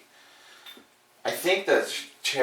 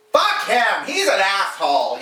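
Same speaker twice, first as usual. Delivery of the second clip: higher, blunt dismissive voice; imitating the liberal girl; 8 semitones higher, slower than usual. Liberal girl on the couch dismissing the customer, blunt. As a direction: toss it off with contempt. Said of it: "the other one's like".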